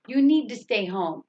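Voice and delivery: emphasize the word "need"; "need" stands out from the rest; stress on "need". Shown as a demonstration. Teacher comparing two stress words, emphasis on "need". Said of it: "You emphasize that word".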